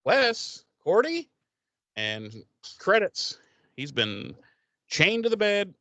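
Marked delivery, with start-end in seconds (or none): 0.0-1.3 plaintive calling. Retold or imitated. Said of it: "he goes".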